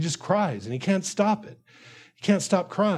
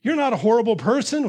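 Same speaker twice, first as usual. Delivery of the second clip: higher, coaxing reassurance, mildly acted; encouraging; 3 semitones higher than usual. Preacher as friend trying to encourage David, higher reassuring voice. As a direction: imitate a friend trying to cheer him up. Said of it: "you intend by saying those things to encourage him".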